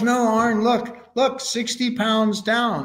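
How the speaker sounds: proud Tom. Retold or imitated. Tom voiced in retold talk.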